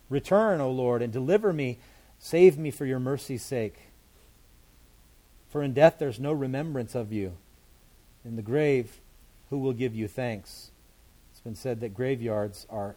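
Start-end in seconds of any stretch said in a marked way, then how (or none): 0.1-10.7 loud pleading prayer. Acted. Pleading psalm read aloud.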